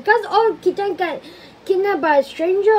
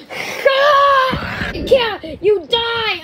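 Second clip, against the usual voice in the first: triumphant shout; 5 semitones higher, much slower than usual. Real, not acted. Triumphant kill in game.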